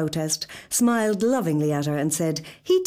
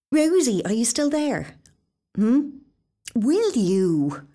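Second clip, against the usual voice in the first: Nuala pleading; 8 semitones higher, 3 dB louder, slower than usual. Acted. Nuala calling, pleading on phone.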